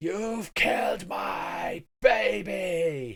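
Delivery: shrill, high-pitched shrieking cry. Game master voicing an unseen speaker shrieking at the players, a high-pitched shriek. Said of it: "a high-pitched voice shrieks".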